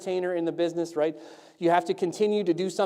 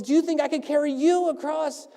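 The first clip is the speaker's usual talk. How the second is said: high, projected dare; showman's challenge; 8 semitones higher than usual. Acted. Tightrope walker to man in front row, projected challenge. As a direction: put the question boldly to one onlooker. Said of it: "and he says".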